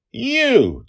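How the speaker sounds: high, very loud shout at the monster; girl yelling. Acted. Little girl defies the goblin monster, shrill yell. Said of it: "Dragon Lil yelled at him".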